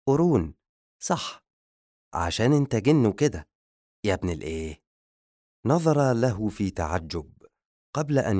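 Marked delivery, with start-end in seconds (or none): 0.1-4.8 assistant delighted by the joke; gleeful. A narrator's reading. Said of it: "قهقه المساعد في فرح وهو يقول". (بفرح)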